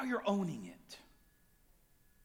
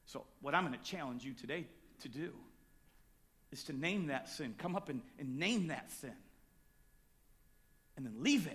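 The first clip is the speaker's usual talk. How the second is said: much softer, lower, gentle close; soft storytelling; 6 semitones lower, 5 dB quieter than usual. Acted. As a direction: draw them in quietly. Quiet closing story.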